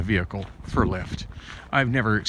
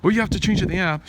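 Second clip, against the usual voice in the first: higher, fast, imitating a flustered driver; mock frantic driver; 8 semitones higher, faster than usual. Imitating the Lyft driver freaking out about the app, higher and fast. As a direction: rattle it off like a panicking driver. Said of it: "she's all freaking out about it".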